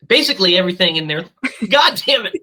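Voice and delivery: interrupted by real hiccups. Real, not acted. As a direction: restart after a hiccup, frustrated. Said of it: "I just have the hiccups".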